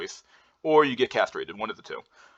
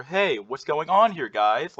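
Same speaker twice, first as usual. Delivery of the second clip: high, stretched "what's going on here"; slow, lilting, pitched-up "going on here, guys"; upward inflection; 5 semitones higher, slower than usual. Shown as a demonstration. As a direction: ask upward from weakness, lifting "guys". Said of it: "you're talking upward".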